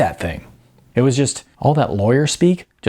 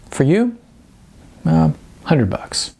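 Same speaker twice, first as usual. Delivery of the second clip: cocky Sean; 6 semitones higher than usual. A narrator's reading. Sean voiced as hustler.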